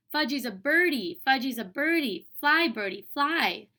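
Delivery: put-on loud, high, delighted little-kid voice; excited toddler. A narrator's reading. Toddler pretending to fly, loud and delighted. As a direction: sing it out like flying. Toddler playing bird on gym.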